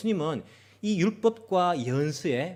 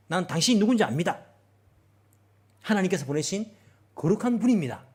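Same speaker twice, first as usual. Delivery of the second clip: loud cry; 4 semitones higher, 4 dB louder than usual. Acted. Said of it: "이렇게 큰 소리를 외쳤습니다".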